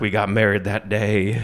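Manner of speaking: lightly voiced country balladeer; hint of a dark country storyteller; understated mock country singer. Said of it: "sounds exactly like" a famous country singer.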